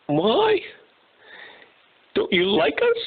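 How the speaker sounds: high, slow, whiny sobbing zebra voice; overly dramatic zebra. Acted. Zebra stuck in the mud wailing to himself, hammed-up sobbing. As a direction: wail like a hammed-up crybaby zebra. Zebra asks lion, hurt.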